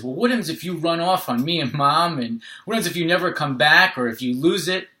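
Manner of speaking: retold worry, voice lifted and pressing; worried child. Child fretting to dad about handing over savings, worried. Child's anxious objections to father.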